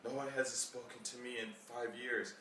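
a passer-by marvelling that anyone talks to them, high and hushed; surprised stranger. Retold or imitated. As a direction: play the stranger, amazed to be spoken to. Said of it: "They're like".

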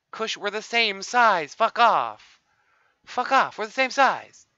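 mock outraged yelling; exasperated shout. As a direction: yell it at the rival. Yelling at a player.

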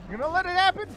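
high, loud questioning rise; insistent demand. Real, not acted. Still demanding enemy give in.

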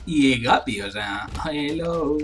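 loud slow pompous boast; mock grand boast. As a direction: boast like a self-declared lord. Boasting as Lord of the Flies.

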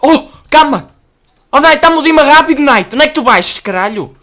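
high, loud frantic shouting; yelling at Knight for the diamond sword; panicked yell. Real, not acted. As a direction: scream for help mid-fight.

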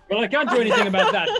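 laughing through the line; laughing while echoing the thug's line; laughing quote. Retold or imitated. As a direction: giggle while repeating it.

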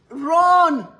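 high, loud mock dismissal; laughing dare. Real, not acted. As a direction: send her packing, half laughing. Mother dares daughter to leave.

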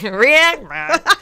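stiff robotic robot voice. Pretend. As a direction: speak it like a robot. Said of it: "I was shifting into my robot voice".

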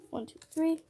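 playful rising count to tease the reveal; sing-song count. Pretend. Opening a pack, counting up with a sing-song lift.

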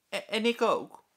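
high, loud stammered joke; mock-pitiful teacher. A narrator's reading. Meester Jaap jokes he is pitiable too, high. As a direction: play the poor victim.

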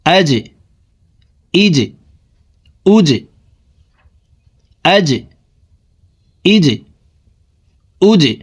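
আজে ইজে উজে, each জ jolted, pitch climbing; qalqala drill. Shown as a demonstration. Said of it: "ধাক্কা দিয়া পড়িতে হয়".

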